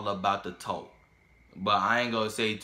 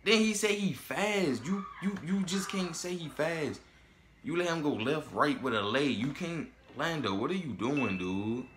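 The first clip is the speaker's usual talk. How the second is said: high-pitched exasperated rant; 5 semitones higher than usual. Real, not acted. Ranting at Lando's defense.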